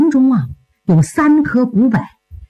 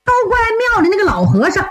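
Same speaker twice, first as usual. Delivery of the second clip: lightly voiced young disciple, higher pitch; 小徒弟诉说缘由; 4 semitones higher than usual. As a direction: explain yourself eagerly to your senior, pitched up. (小徒弟略高声地向师兄解释)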